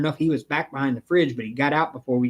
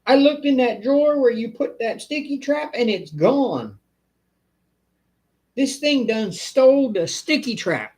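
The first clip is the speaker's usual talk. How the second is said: a lightly voiced old woman, higher; mock old lady; 8 semitones higher than usual. Pest guy retelling the old lady's call, lightly higher. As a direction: quote the frightened customer, up high. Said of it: "She goes".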